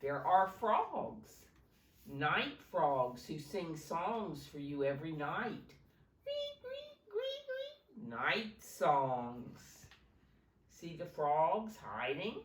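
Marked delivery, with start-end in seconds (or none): 0.0-9.7 slow, louder read-aloud voice; reading a picture book to children; slow story reading. Acted. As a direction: read each line slowly to the class.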